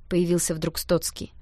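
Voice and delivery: ordinary delivery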